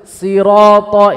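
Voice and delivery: Sirata with a thin plain s, marked wrong; wrong reading. Shown as a demonstration. Teacher flagging the incorrect sound to students. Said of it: "ini salah".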